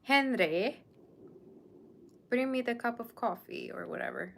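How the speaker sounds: playful British lady summoning her butler Henry; British accent. Pretend. Streamer playing a lady calling her butler, British accent. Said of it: "I don't even know how to do the accent".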